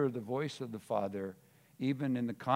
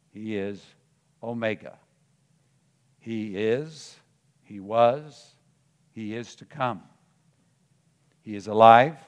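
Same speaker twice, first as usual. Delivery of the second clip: measured declaration in short phrases with long pauses; preached proclamation; 7 dB louder than usual. Acted. Preacher declaring who Christ is to the congregation, solemn proclamation. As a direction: proclaim each title with punched key words.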